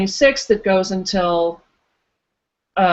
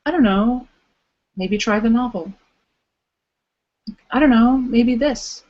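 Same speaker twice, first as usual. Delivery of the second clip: calm inner voice; 3 semitones higher than usual. Retold or imitated. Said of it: "a very calm, quiet voice".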